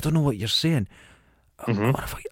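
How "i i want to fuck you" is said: put-on whispering voice, lower. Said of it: "he whispers".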